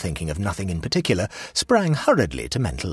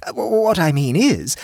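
stammering higher hostess; flustered hostess; 12 semitones higher, 6 dB louder than usual. A narrator's reading. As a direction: fumble for words.

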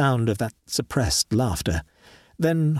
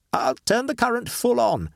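raised, fast, brushing it off; Horton, dismissive; 11 semitones higher than usual. Acted. Horton dismisses his friend's fear, fast and raised. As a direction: wave away his fear, then lean in eager.

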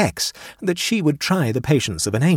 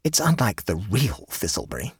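suspicious; 3 dB quieter than usual. A narrator's reading. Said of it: "he said suspiciously".

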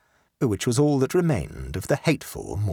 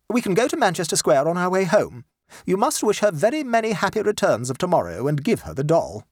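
high, firm mother voice, scolding; a proper lady lecturing her boy; stern mother; 8 semitones higher than usual. Acted. Mother ordering her sulky son about, high and firm.

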